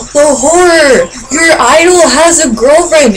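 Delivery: theatrical gasp, sarcastic shock; mock horror. Mocking young fans jealous of a girlfriend, mock horror. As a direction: feign scandalised outrage with a gasp.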